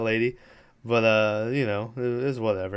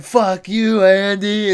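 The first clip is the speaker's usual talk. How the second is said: a higher, louder snarled curse; mock angry yell; 6 semitones higher, 7 dB louder, slower than usual. Chucky curses Andy while being shot, high mock yell. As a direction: spit it out as the doll gets shot.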